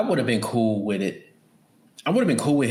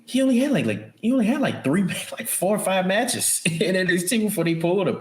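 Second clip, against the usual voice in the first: laughing disbelief; 9 semitones higher than usual. Real, not acted. Laughing disbelief at early call-up.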